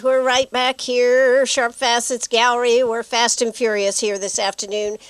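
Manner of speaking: breathless after rushing in; out of breath. Real, not acted. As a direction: talk while catching your breath. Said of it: "You're out of breath".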